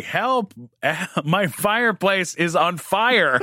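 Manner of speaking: high yell broken by laughter; calling for help. Retold or imitated. Yelling out of the burning trailer to the crew, laughing. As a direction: shout for help, laughing through it.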